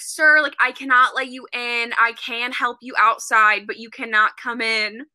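mild mock yell, firm and emphatic; retold yelling. Worker refusing entry to a customer through the door, mild retold yell. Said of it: "yelling through the door".

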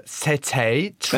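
English speaker's halting French; French with English vowels and r; French with English accent. Shown as a demonstration. Guest retries his impression for the hosts, English-accented French. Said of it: "Okay, that's better".

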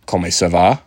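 "Comment ça va?" in a beginner's French accent, rising on "va"; French greeting. Shown as a demonstration. Vlogger shows viewers the French he learned, beginner's accent. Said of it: "I know how to ask you how you are doing".

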